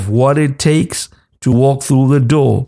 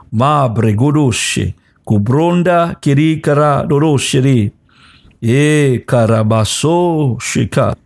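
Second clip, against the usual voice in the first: flowing unfamiliar syllables in prayer cadence; speaking in tongues. Acted. Pastor praying in tongues over the listeners, flowing prayer cadence. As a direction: pray in tongues, rhythmic and steady.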